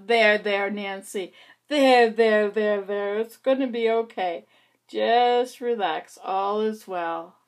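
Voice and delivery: slow, loud comforting there-there; self-soothing. Pretend. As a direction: pat yourself on the back with words. Soothing herself by name, Nancy.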